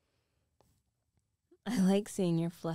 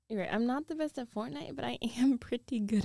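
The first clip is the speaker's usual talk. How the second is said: quick whisper; 2 semitones higher, faster than usual. Acted. Teasing whisper to boyfriend.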